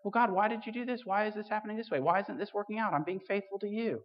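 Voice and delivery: mock protest to God; plaintive complaint. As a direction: complain upward to God, pitched high. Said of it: "I often go".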